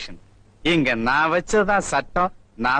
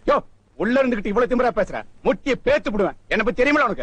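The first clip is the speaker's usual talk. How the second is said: angry threat; 6 semitones higher, faster than usual. Acted. Policeman threatens jailed man.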